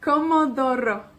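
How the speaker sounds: Comodoro in a Welsh accent, DO stressed. Shown as a demonstration. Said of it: "con acento galés".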